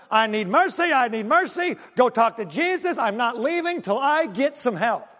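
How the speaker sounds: emphatic begging without tears; acted crying out. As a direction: retell a woman begging repeatedly. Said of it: "repeatedly crying to them".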